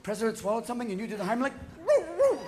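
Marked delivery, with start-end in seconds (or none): 1.9-2.4 high yipping dog bark; Lassie barking. Retold or imitated. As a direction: bark like an eager collie. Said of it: "What's wrong, Lassie?".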